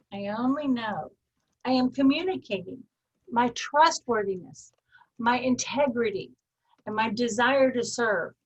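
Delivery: free-form affirmation, paced and sincere; a sincere spoken mantra; riffed affirmation. Shown as a demonstration. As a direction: speak it as a personal commitment. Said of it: "do you hear I'm kind of riffing on that?".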